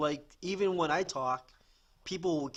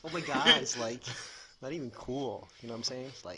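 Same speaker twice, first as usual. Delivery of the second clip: lightly voiced Valley Girl; Valley Girl accent; 3 semitones lower than usual. Friend imitating a California girl, light Valley Girl. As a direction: tail off in mock Valley Girl. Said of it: "The Valley Girl".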